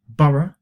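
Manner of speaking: "borough" the British way, ending in a schwa; "borough" with an unstressed "uh" ending, not "oh"; British pronunciation. Shown as a demonstration. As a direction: say "borough" as BURR-uh. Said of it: "British English. We pronounce".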